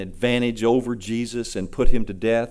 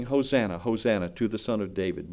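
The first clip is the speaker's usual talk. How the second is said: soft, low, gentle hosanna; children's praise; 4 semitones lower, 6 dB quieter than usual. Retold or imitated. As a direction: say it hushed, like children singing it. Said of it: "the little children were singing".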